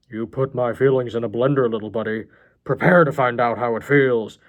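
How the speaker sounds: put-on madman menace; aggrieved villain, lightly voiced; vengeful John. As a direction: build to a loud threat.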